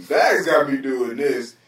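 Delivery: slow, whiny mimic of blame-shifting; lightly mocking a friend passing the blame; mocking imitation. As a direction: drag it out like a lame excuse. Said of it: "Why does people always do that to me?".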